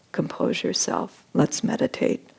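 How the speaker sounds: softly whispered calming words; gentle hush. Retold or imitated. Guru soothing the sobbing disciple, whispered. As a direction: hush him into stillness.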